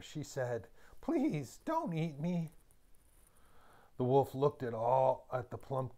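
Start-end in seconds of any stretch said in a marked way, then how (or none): 1.0-2.5 pleading goat. A narrator's reading. Frightened goat begs wolf.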